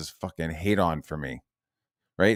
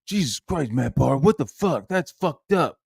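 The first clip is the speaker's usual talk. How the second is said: mock scandalised; 7 semitones higher than usual. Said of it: "Yellow Flash, like, is like".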